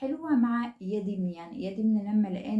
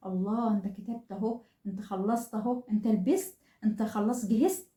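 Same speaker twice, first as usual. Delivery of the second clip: put-on light cheering of a child; encouraging praise. Shown as a demonstration. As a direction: gently praise each small step. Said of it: "في تحفيز على طول". (تشجيع خفيف للطفل)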